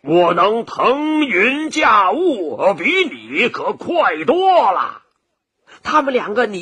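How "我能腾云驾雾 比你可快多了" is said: slow, stretched-out dragon boast; defiant boast. Acted. Dragon challenges the rabbit, defiantly boasting. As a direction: swagger through each drawn-out word. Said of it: "龙也不服气".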